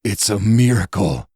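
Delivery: voice breaking. Acted. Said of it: "Elder Gregory's voice broke".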